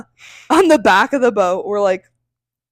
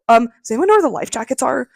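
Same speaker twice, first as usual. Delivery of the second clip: retold passenger's first public query; asking around; 3 semitones higher, faster than usual. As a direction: ask the people around you, mildly raised voice. Retold lady asking other passengers.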